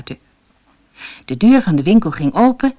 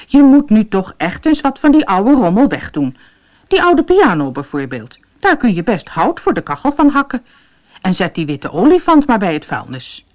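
louder grumbling complaint; grumbling wife; 4 semitones higher, 3 dB louder than usual. Acted. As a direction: nag her husband about the junk. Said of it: "Ze mopperde".

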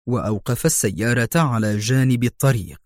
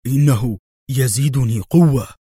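unruffled patient in a lightly voiced character; utterly calm; 4 dB louder than usual. A narrator's reading. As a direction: answer with complete composure. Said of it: "بمنتهى الهدوء".

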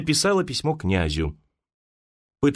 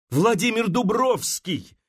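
higher, slower, desperate answer; in despair; 8 semitones higher, slower than usual. A narrator's reading. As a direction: fling the name out in despair. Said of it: "отвечала Маша в отчаянии".

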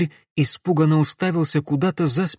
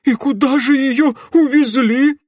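panicked outcry; 13 semitones higher, 8 dB louder than usual. Acted. Horrified mayor keeps exclaiming.

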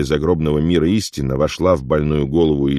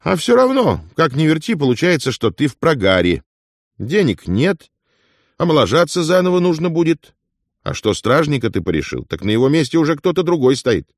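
much higher, lecturing and know-it-all; mentor's tone; 11 semitones higher than usual. Acted. Afonya lectures Ilya about his losses, mentoring and higher. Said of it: "перешёл на менторский тон".

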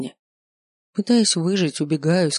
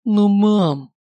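moaned; 4 semitones higher, 5 dB louder than usual. Acted. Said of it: "простонал он".

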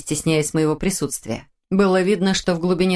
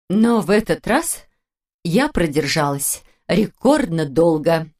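slow, gasping but pleased; proud, catching her breath; cheerful and breathless; slower than usual. Acted. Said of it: "Весело заявила та, хватая ртом воздух". (весело, хватая ртом воздух)

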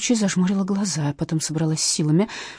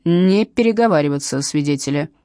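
a sharp louder bark; barked order; 5 dB louder than usual. Acted. Captain barking at chattering witnesses. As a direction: snap at the witnesses. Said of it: "рявкнула Матросова".

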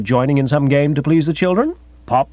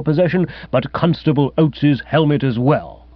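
lightly voiced indignant old gentleman; stiff accusing host. Host accusing his guest of stealing the cow creamer, stiffly indignant. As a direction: address him with formal, offended dignity.

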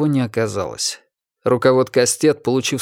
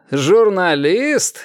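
loud repeat; 7 semitones higher, 3 dB louder, much slower than usual. A narrator's reading. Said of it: "громко повторил Костя".

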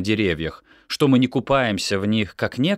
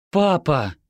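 cross reply; 9 semitones higher than usual. A narrator's reading. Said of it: "ответила Декла не менее сердито".

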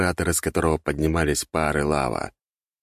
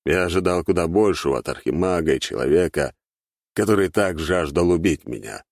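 a hint of cold disdain; cold contemptuous villain. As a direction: belittle him calmly.

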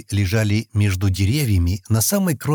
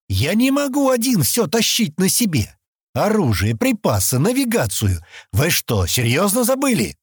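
much higher, shouted complaint; angry outburst; 9 semitones higher than usual. A narrator's reading. Exasperated yelling. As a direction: Stan yells at the girls for forgetting, angry. Stan blows up at the girls.

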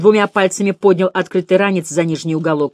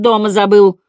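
louder, mildly gloomy declaration; a touch of pupil's surliness; sullen; 4 semitones higher, 7 dB louder than usual. A narrator's reading. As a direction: state it sullenly and emphatically. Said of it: "хмуро заявил Градусов".

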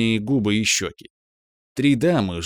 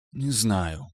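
bass contralto; 5 dB quieter than usual. Acted. A café lady admits in a bass contralto. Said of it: "басистым контральто созналась".

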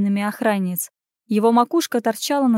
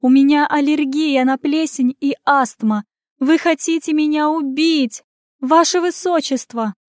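dramatic complaint; 5 semitones higher, 3 dB louder than usual. Acted. Fake sick tantrum at guards.

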